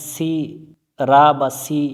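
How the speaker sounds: "সি রা" with light s and open flat a; thin wrong pronunciation. Retold or imitated. Teacher showing forbidden reading, "সি রা" with thin letters. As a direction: say "সি রা" thinly, without heavy consonants. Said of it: "এভাবে পড়া যাবে না".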